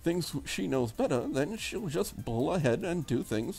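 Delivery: put-on soft, quiet, prim young Englishwoman; preppy English girl. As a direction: read her as a proper English girl, softly. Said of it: "a preppy English type of a girl".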